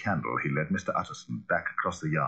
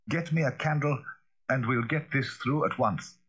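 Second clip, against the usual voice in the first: firm butler; 7 semitones higher than usual. A narrator's reading. Poole orders boy.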